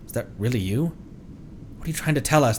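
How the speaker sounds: normal talking voice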